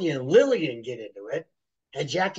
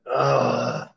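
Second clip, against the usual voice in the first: pained grunt; 3 dB louder than usual. Retold or imitated. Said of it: "And I went".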